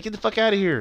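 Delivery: high-pitched mock telling-off; retold anger. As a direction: imitate an angry sister throwing someone out. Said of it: "then she got all mad".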